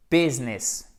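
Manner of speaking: "business" as BÉZ-ness; two-syllable "business", middle i silent. Shown as a demonstration. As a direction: say "business" with first vowel near French é. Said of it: "comme un e accent aigu".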